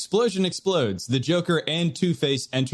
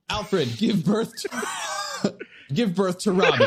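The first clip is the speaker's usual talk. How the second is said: slow, high mock hero voice; Batman voice; 3 semitones higher, slower than usual. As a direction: drag out the order slowly.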